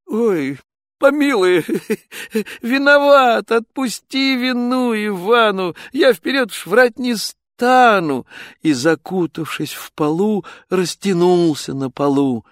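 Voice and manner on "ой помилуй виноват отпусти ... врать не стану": pleading Ivan. Acted. Ivan begs forgiveness.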